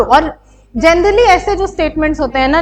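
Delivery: normal talking voice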